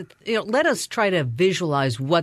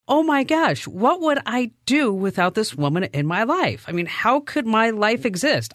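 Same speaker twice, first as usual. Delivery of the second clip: self-mocking wail, higher pitched; mock distress; 4 semitones higher, 3 dB louder than usual. Host retelling her assistant's retirement news, mock distressed. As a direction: play up the panic of being left behind. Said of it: "then I started to cry".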